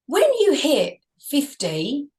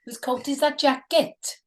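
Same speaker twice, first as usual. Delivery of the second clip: lilting put-on Welsh; Welsh accent. Shown as a demonstration. Host answers a request for Welsh, Welsh accent. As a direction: do a playful Welsh catchphrase. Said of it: "Can you do Welsh?".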